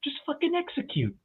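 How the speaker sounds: drill sergeant impression. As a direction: bark it like a mocking drill instructor. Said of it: "he always would say".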